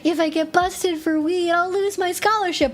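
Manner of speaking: pleading student. Pretend. Nursing student begging the cop, high and pleading. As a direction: beg as if your future depends on it. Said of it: "You have to go".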